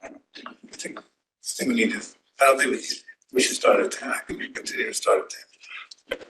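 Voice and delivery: hoarse, barely voiced words; losing voice. Real, not acted. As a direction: voice giving out, half whispered. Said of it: "I'm having a hard time hearing you".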